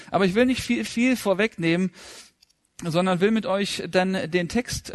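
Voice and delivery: ordinary talk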